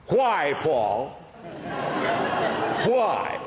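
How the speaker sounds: a lightly voiced Jack Benny deadpan. Sleepy wife answers her husband in a light Jack Benny voice. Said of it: "who talked like Jack Benny".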